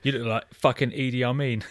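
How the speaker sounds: mildly heated name-calling; imitating a film villain's abuse; aggressive recited insults. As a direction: pile up insults without faltering. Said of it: "it's so aggressive".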